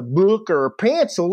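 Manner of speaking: "book" and "pencil" in exaggerated imitation of the Southern teacher; mocking teacher's pronunciation. Defiant student mocks the teacher's "book" and "pencil" drawl. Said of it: "this is English class".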